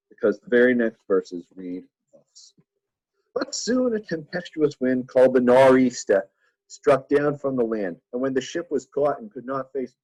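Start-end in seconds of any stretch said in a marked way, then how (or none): 3.4-10.0 a hammed-up Southie Boston accent, slowed, reading scripture. Teacher jokingly reads Acts to the class in a bad Boston accent. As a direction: read the verse like a joking Boston local, in a Boston accent. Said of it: "that's just a horrible Southie Boston accent".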